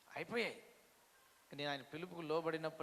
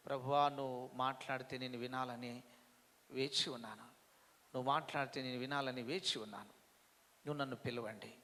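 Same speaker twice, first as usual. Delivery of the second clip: quiet prayer; 3 semitones lower, 3 dB quieter than usual. Shown as a demonstration. Models a prayer.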